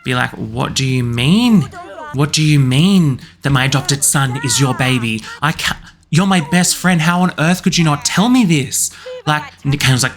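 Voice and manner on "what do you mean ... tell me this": mildly indignant, pitch rising into protest; argumentative. Acted. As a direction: confront a best friend in mock outrage. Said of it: "bit of an argument about that".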